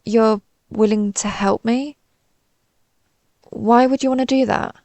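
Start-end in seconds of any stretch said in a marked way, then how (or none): 0.0-2.0 hesitant, tune rising at the end; disbelieving question. Acted. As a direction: ask as if you can't believe the offer. Disbelieving reply to offer of help.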